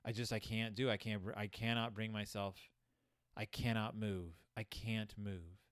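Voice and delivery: low, listless mock voice; weary, softened delivery sunk low in pitch; bored, depressed Mama. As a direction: imitate a mother who can't bring herself to do anything. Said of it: "bored expression on her face".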